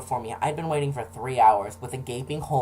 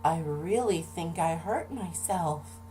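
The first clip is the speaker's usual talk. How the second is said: put-on higher, slow pleading child voice; a small boy insisting, higher and slow; insistent kid; 6 semitones higher, slower than usual. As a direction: plead with mom to believe you. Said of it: "and I'm like".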